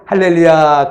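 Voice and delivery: lightly imitated pastor's hallelujah; playfully borrow another preacher's hallelujah; 서태웅 목사님. Preacher mimicking a fellow pastor's praise, light imitation. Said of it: "서태웅 목사님처럼".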